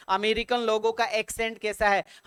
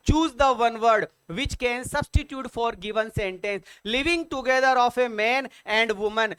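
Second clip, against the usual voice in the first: slow quiz read-out; much slower than usual. Shown as a demonstration. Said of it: "reads question slowly".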